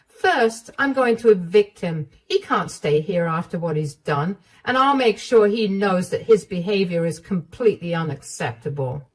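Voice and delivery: resolute mother-in-law. Acted. Mother-in-law announcing she'll evict her son, decisive. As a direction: announce the plan firmly.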